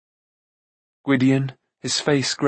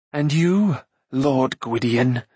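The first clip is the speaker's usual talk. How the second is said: slow, lightly voiced bitter queen; accusing; slower than usual. Acren confronting Lord Gwydion, understated slow accusation. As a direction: draw out the address as a mild accusation.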